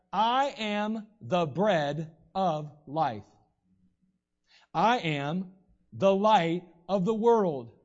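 slow, deliberate, each I am a beat of its own; solemn scripture recitation. Acted. Preacher quoting Jesus to the church, slow and solemn. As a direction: lay the sayings down one by one, weighty.

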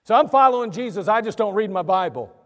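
lightly mocking careless believer; mock excuse. Preacher mocking churchgoers who skip the Bible, lightly sneering. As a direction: parody the excuse with a shrug. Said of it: "mocking a lax believer".

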